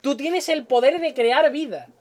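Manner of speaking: lightly voiced comic-book advert, slow; ad slogan. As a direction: recite it slowly like an old ad slogan, lightly put on. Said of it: "los anuncios esos que te venden muñecos". (eslogan de anuncio, imitado con ligereza y despacio)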